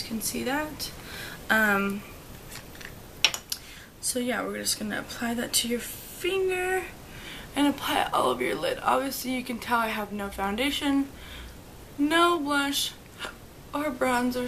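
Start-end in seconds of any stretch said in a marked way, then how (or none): 4.0-14.5 talking through hiccups; hiccuping between words. Real, not acted. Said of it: "Sorry, I have the hiccups".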